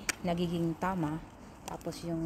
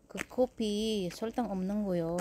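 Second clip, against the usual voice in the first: mock Korean; 3 semitones higher, slower than usual. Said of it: "So, sabi ko".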